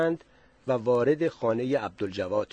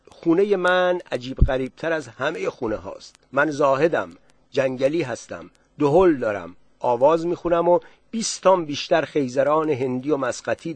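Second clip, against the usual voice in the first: boastful villager; 2 semitones higher, 5 dB louder than usual. Acted. Zahed boasts of his house.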